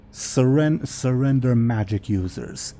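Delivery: broken dragon speech. Acted. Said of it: "in broken Thalassian".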